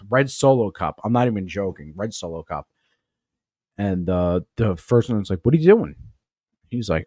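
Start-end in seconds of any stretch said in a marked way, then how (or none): 5.4-6.0 sharp, raised confronting voice; stern demand. Retold or imitated. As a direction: demand it like an angry officer. First sergeant confronting drunk sergeant.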